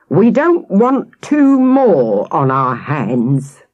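slow, weighty, menacing policeman; mild roar. Acted. Policeman warning the twins, a slow mild roar. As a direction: lean hard on every word. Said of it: "he roared".

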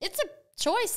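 laughing through it. Real, not acted. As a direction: confess it with a laugh.

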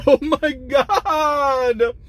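high, loud, drawn-out delight; ecstatic. Real, not acted. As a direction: stretch it out in pure bliss. Tasting amazing mac and cheese.

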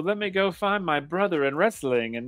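high, hammed-up sudden remorse; mock repentance. Podcaster mimicking a bad guy turning babyface, mock-repentant. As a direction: send up his tearless apology, dragging the final words. Mocks wrestler's change of heart.

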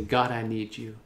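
soft, low, unforced plea; gentle surrender. Shown as a demonstration. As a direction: say it softly as a quiet surrender. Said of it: "just surrender your heart and say".

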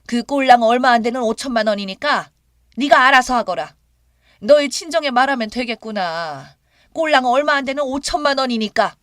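dumbfounded, cutting mother-in-law; appalled and scornful. A narrator's reading. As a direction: dismiss them with loud, offended scorn. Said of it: "정말 기가 막히고 어이없어서".

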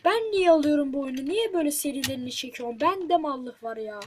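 ranting at himself; real frustration, last words slowed; exasperated rant. Real, not acted. Self-mocking rant.

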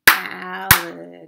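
"Alligator" loud and level in four beats; syllable by syllable. Shown as a demonstration. Teacher asking how many claps, syllable by syllable. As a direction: beat out every syllable of "Alligator" evenly.

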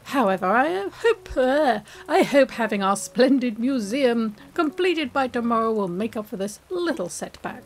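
lightly voiced posh English gentleman; a hint of a posh English scholar making a formal apology; Blathers impression. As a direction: put on a politely apologetic, well-to-do English manner. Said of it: "That was my Blathers impression".

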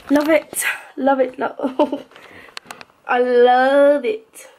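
very slow, drawn-out "love"; dreamy, lingering delight; gushing adoration. Real, not acted. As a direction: savour it, stretching the word out. Gushing over her cosy lit room.

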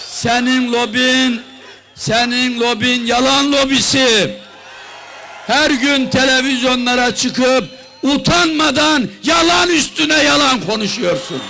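building from firm to shouting; rally speech. Real, not acted. Rally speech attacking the prime minister.

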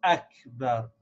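"Akbar" starting on a crisp "a"; "Akbar" with its first vowel clearly attacked; clear, sharp alif. Shown as a demonstration. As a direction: begin "Akbar" with a sharp glottal onset, no "w". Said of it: "this alif very clearly and sharp".

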